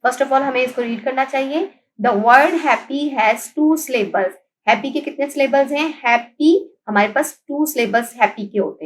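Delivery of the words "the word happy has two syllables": very slow, every word spaced apart; slow reading aloud. Shown as a demonstration. Teacher reading the book line to pupils, very slow. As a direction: read it out word by word for the class. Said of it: "reading the sentence slowly".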